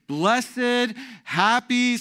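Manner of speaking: high, declaimed reading; proclaimed scripture. Acted. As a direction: ring out each word of the verse.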